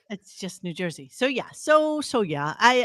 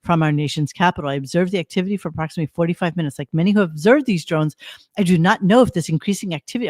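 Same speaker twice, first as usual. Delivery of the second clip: reads the governor's post aloud, a bit brisk; reading a post aloud; 3 semitones lower, faster than usual. Shown as a demonstration. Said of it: "posted this".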